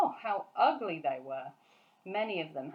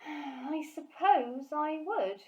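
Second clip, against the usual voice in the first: put-on higher, slow, reluctant girl; Sophie's voice; 8 semitones higher, 3 dB louder, much slower than usual. Sophie admitting to the giant, slow girl's voice. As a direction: concede slowly like a young girl.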